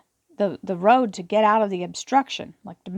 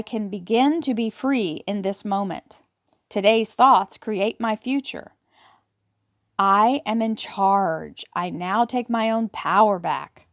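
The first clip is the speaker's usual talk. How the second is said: slow affirmation; slower than usual. Acted. Reads card affirmation slowly.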